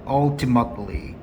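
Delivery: "ultimately" in an American accent, slowly; slow American-style "ultimately"; American pronunciation. Shown as a demonstration. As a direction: model American "ultimately" with a reduced middle t. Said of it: "쌤 미국식 발음할게요".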